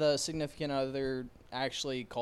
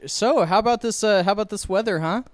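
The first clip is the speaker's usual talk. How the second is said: mock subject change; 8 semitones higher, 12 dB louder than usual. Loudly dodging an awkward topic.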